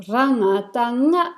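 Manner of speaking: rangatanga run together, ending on a rise; spelling recitation. Shown as a demonstration. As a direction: recite rangatanga as a spelling, lifting the last nga. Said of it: "then you pronounce the whole syllable".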